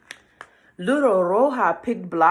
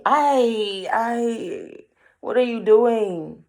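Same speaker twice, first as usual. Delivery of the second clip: high, louder bird voice; worried birds; 5 semitones higher, 3 dB louder, much slower than usual. Acted. Birds scolding the girl, high and alarmed. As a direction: fret like a little bird.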